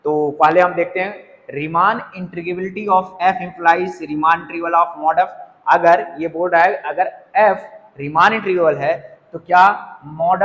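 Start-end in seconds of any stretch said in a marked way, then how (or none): 1.6-5.4 very slow, measured reading of the question. Shown as a demonstration. Teacher reading an exam question aloud to students, slowly. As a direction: read the question text out word by word.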